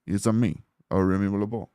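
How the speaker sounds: badly faked Cajun accent; Gambit. Shown as a demonstration. Streamer fumbling his Gambit demo, in a shaky Cajun accent. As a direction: attempt at Cajun that slips off target. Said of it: "I'm doing it wrong".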